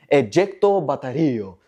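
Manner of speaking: mock Italian accent on ejecto baterio. Presenter naming China's battery ejection in a mock Italian accent. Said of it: "said it in an Italian accent".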